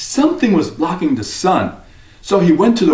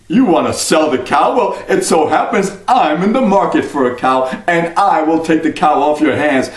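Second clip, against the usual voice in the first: sly stranger. Acted. Stranger bargains with Jack for the cow, sly. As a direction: talk the boy into a deal.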